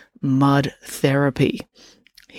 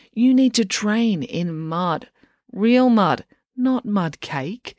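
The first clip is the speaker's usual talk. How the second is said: put-on bossy coach girl; 5 semitones higher, slower than usual. Loretta insists.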